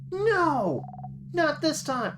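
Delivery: put-on a kid sister yelling to protect her friend; fierce cry. Bonnie charges sadness.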